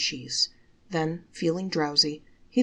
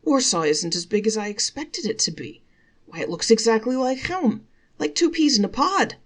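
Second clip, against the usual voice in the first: rising, louder amazement; amazed; 5 semitones higher, 5 dB louder than usual. Acted. Selig marvelling at the city, rising high and louder. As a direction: build from wonder to a high exclaim.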